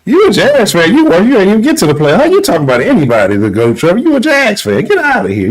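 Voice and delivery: high, swooping taunts; mocking trash talk. Host telling a Jags fan off, high mocking heckle.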